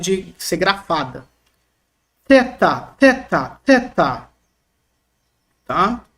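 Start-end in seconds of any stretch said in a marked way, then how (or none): 2.3-4.3 Theta repeated with a breath through the teeth; aspirated TH. Shown as a demonstration. Teacher drilling the letter for students, aspirated TH. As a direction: blow the TH in each theta. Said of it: "T H aspirado".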